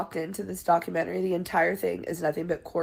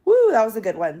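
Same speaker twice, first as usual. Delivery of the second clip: impressed; 2 semitones higher, 8 dB louder, faster than usual. Retold or imitated. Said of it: "just be like".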